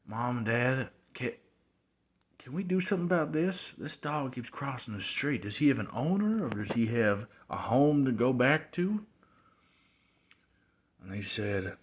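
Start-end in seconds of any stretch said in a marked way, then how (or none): 0.1-9.0 put-on higher-pitched kid asking parents; lightly voiced boy appealing to Mom and Dad; pleading young self. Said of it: "I talked to my mom and dad, and I said".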